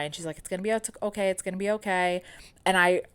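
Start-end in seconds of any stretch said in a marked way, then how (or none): 0.4-1.3 holding back tears. Retold or imitated. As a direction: voice catching on okay. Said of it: "trying not to cry".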